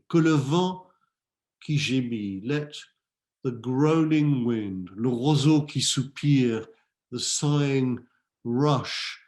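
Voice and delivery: measured, declaimed verse; poet's appeal, phrase by phrase with pauses; poem recitation. Acted. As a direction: project each French line, then linger on the translation.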